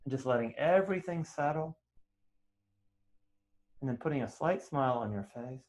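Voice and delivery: soft, unhurried meditation voice; guided meditation. Real, not acted. Teacher easing students into chanting, gentle meditation guiding. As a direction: settle them quietly, leaving long silences.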